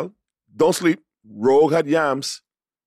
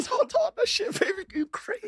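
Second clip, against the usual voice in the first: put-on Southern Belle accent; 7 dB quieter than usual. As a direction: tease him like a sassy Southern belle.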